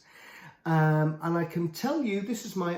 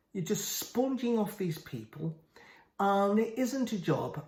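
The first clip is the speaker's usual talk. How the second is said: higher-pitched, indignant contradiction; flatly refute him, pitch raised; emphatic rebuttal; 5 semitones higher than usual. Real, not acted. Rebutting the absent man directly.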